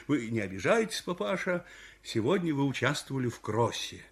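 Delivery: calm the aggrieved man gently; quiet, placating official; soothing. Acted. Older official soothes the runner.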